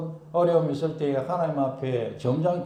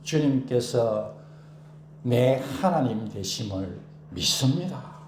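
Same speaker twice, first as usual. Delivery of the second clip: slow, lower, steady; calm confession of trust; 4 semitones lower, slower than usual. Shown as a demonstration. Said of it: "확신을 고백합니다". (차분한 신앙 고백)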